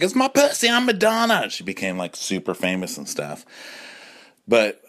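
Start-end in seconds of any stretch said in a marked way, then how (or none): 0.0-1.5 high, sassy diva boast; proud pop star. Retold or imitated. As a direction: claim it like a diva. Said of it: "She's like".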